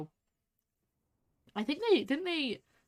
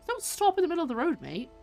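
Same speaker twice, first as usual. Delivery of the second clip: calling out; 11 semitones higher, 4 dB louder than usual. Real, not acted. Yelling at another driver in game.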